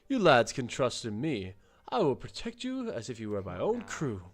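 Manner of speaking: hearty, boastful captain voice, lightly put on; the proud king of the seas reassuring his new friends. Captain reassuring the lads he will protect them, hearty and boastful.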